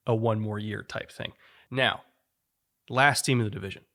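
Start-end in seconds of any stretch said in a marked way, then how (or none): 2.9-3.8 "last" hit firmly, then the rest falls away; stress on last. Shown as a demonstration. Host teasing Packers fans about ranking last, stressing "last". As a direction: lean hard on "last" in "last team in the division". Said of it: "Emphasis on the word last".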